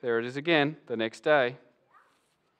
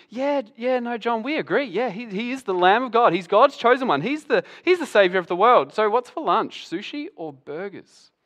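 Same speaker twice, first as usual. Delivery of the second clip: breezy, higher voice, shrugging everything off; casual fake agreement; 5 semitones higher than usual. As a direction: play the disciples nodding along lightly. Disciples fake agreeing with John.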